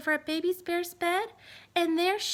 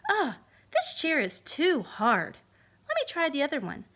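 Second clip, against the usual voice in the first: Goldilocks; 3 dB louder than usual. Acted. Goldilocks tests chairs.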